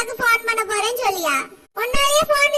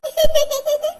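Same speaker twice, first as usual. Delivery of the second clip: short high laugh with rising end; burst of laughter; 4 semitones higher, 4 dB louder than usual. Real, not acted. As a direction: laugh out at the joke. Daughter laughs at mother's joke. (அம்மாவின் கிண்டலுக்கு வெடித்துச் சிரிப்பு)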